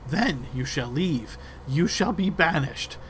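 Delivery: menacing creature leader; rat leader threatening. Acted. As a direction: lay down the terms, climbing into a shrill shout. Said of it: "the rat leader's terms".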